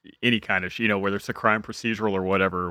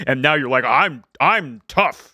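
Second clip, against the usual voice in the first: mocking through laughter; 4 semitones higher, slower than usual. Mocking Chakotay while laughing.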